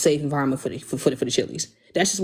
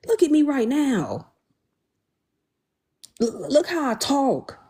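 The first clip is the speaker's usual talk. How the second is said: slow, higher, tight anxious voice; 7 semitones higher, slower than usual. Real, not acted. Host showing chat how kid talk makes her anxious, slow and high. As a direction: let real anxiety squeeze the words up high. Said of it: "The anxiety in my voice".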